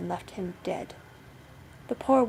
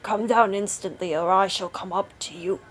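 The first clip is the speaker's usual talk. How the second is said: moderately raised husband's command; bawled command; 5 dB louder than usual. A narrator's reading. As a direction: order the wife down, not quite bawling. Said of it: "cried out as loud as he could bawl".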